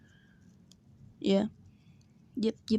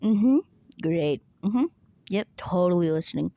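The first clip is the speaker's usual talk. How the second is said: fake listening; 5 dB louder than usual. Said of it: "run out of actual good responses".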